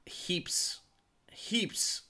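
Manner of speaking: each word in a drawn-apart whisper; whispered emphasis. Real, not acted. Host stressing a coach's long career to his co-host, whispered emphasis. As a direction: whisper it for weight, pausing after each. Dwelling on coach's vast experience.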